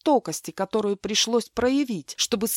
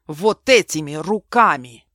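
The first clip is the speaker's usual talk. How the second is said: loud shout; 3 semitones lower, 8 dB louder than usual. Acted. Mark shows his hands.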